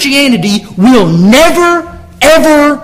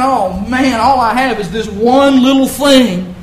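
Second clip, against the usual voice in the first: softer, deflated mopey grumble; mock moping; 4 dB quieter than usual. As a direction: mope it out half-heartedly. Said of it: "This guy's not all moping around".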